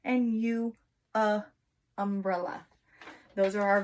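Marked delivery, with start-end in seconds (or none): 1.1-1.4 short u as a short uh sound; vowel sound demo. Shown as a demonstration. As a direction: model the uh sound for U. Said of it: "let's do a quick review".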